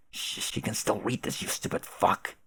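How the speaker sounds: whisper. Acted. Warning not to let her read.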